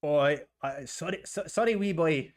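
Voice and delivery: faltering attempt at a Scottish accent; fake Scottish accent. Kev apologising to the boss, shaky fake Scottish accent. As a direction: try a Scottish accent and fumble it. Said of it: "go back to your Scottish accent".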